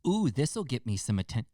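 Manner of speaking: lightly mocked teenage kid; a hint of eager teenager; imitated attention-seeking teen. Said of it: "fifteen-year-old kid trying to disappoint".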